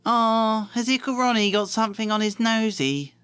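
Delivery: high mock baby-talk tease; teasing twin. Twin teasing little Ron in high baby talk. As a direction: coo it at your little brother. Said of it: "said one of the twins".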